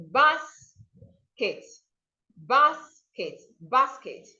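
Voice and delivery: "basket" split into a stressed BAS and short ket; teacherly repeats of "basket", stressed on BAS; stress first syllable. Shown as a demonstration. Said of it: "please stress the first syllable".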